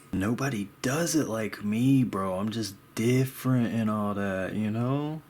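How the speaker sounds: put-on swagger with lively ups and downs; mock boastful bragging; mock cocky. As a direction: play the self-important artist as a joke. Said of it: "No, I don't think like that".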